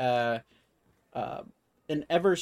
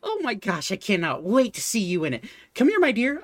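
gushing shopkeeper; 7 semitones higher than usual. Acted. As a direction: call the little one over warmly. Shopkeeper gushes at Alara.

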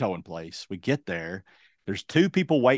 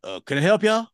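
higher, lightly voiced bored woman; a hint of an uninterested clerk; 8 semitones higher, 3 dB louder than usual. Tow lot woman asking the stranger, lightly mimicked high.

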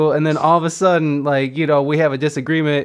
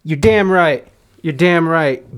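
emphatic; 4 dB louder, slower than usual. Real, not acted. Excited insistence.

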